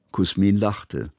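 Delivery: usual speaking voice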